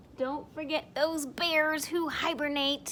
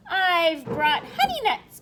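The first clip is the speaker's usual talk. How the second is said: grinning badger; 3 semitones higher, 7 dB louder than usual. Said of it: "Badger says with a grin".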